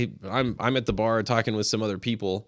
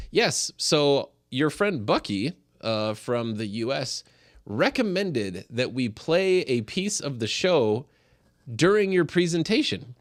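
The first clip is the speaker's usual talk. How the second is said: quoting Richard; 4 semitones higher, slower than usual. Retold or imitated.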